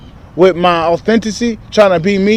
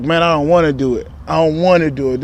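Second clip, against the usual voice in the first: reluctant inner whine; 3 semitones lower, 5 dB quieter than usual. Retold or imitated. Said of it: "I'll be like".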